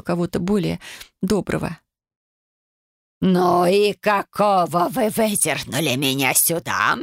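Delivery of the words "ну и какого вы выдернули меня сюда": put-on slow, grumpy old ghost's growl; a cranky old lady scolding; snapped. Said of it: "рявкнула леди Офелия". (сварливая старуха рявкает)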